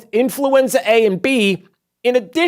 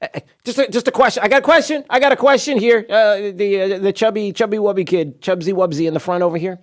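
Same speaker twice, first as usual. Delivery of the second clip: mock eager reporter; 4 semitones higher, faster than usual. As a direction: play a pushy reporter begging to ask. Mimics reporter raising hand.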